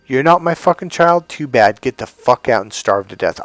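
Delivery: put-on scene: instinct voice telling a stranger's child to starve, loud; ruthless snarl. Hammed-up cruel mother.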